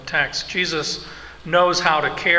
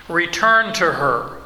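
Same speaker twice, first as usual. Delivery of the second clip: commanding imperative; 3 semitones higher, 4 dB louder, slower than usual. Retold or imitated. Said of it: "It's an imperative".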